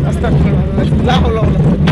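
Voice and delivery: loud, rushed prayer; shouted prayer on a ride. Real, not acted. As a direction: cry it out mid-ride. Praying during the ride.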